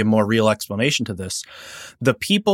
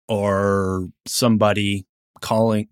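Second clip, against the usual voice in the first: normal talking voice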